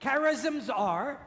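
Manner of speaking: slow prompt, left rising for the echo; measured phrase held open for repetition; repeat-after-me prompt. Shown as a demonstration. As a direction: lead the group in reciting, slowly. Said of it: "Please repeat after me".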